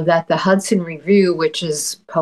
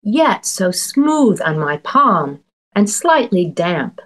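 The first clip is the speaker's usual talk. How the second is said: poem reading. Acted. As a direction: read it like a poet savoring images. Poet reads her poem aloud.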